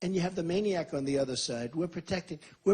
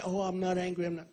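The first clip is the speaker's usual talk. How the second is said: meek denial; 2 semitones higher, 4 dB quieter than usual. Pretend. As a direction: play the one who backs down and denies it. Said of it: "And rather than say".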